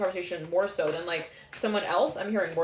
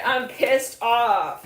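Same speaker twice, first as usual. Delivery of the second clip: slow, louder, hammed-up grumpy declaration; mock pissed off; 3 semitones higher, 7 dB louder, much slower than usual. Reader announces her pissed-off poetic side, mock angry. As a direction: drag it out like a put-on huff. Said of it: "I get pissed and I get poetic".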